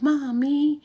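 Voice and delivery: high, drawn-out mock whine; imitating a daughter's high whine; whiny daughter. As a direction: whine it like a reluctant teen.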